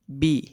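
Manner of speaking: بی with the voice dropped down. Shown as a demonstration. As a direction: drop the sound for بی. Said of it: "آواز کو نیچے گرا کر". (آواز گرا کر بی)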